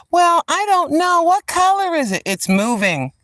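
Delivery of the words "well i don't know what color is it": mock buyer.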